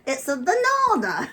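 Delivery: high cheeky monkey voice; perky puppet aside; squeaky ventriloquist dummy. Acted.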